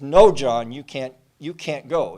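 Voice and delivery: pleading cry. Retold or imitated. Mother begging son not to go.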